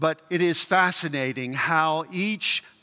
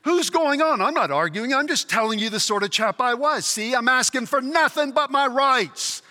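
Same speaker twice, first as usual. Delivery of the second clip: affronted ghost, voice jumping higher, quick in places; rough ghost; 4 semitones higher than usual. Acted. Ghost argues with his former underling, indignant rough character. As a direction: protest hotly in the ghost's voice. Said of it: "These are two very rough characters".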